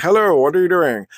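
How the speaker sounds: a hint of white-guy voice, mildly indignant. Cleaner challenges man crossing mopped floor, lightly imitated white guy. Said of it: "I think he's a white guy".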